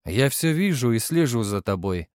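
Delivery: cold hissing layered whisper; hollow voice from beyond the grave; sepulchral voice. A narrator's reading. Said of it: "загробным голосом сказал я". (замогильный голос)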